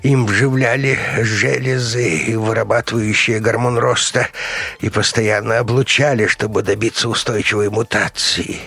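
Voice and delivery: cowed doctor. A narrator's reading. Beaten doctor confessing the experiment, cowed.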